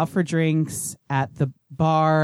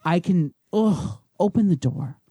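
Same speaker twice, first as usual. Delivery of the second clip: slurred, tipsy, insisting she's fine; drunk girl voice; 2 semitones lower than usual. Pretend. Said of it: "Can you do the voice?".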